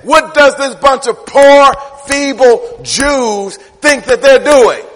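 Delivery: loud, very slow scornful taunt; mocking quote. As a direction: drag out the enemies' sneer, loud. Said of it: "This is what they said".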